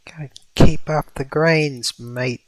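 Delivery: put-on hushed, half-hearted Australian accent; breathy stab at an Australian voice; attempted Australian accent. Streamer teasing an Australian viewer, mock Australian accent. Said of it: "an Australian accent".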